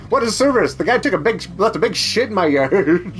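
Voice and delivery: high, amused rave about the service; mock-delighted customer. Mock customer raving about yard work, excited and amused.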